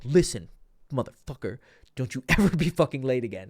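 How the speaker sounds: loud, menacing threat to a late friend; mock furious threat, grabbing him by the collar; extreme aggressive threat. Shown as a demonstration. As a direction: get in his face and threaten him. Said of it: "this is the extreme".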